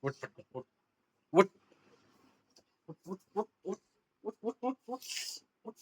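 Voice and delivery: soft coaxing. Acted.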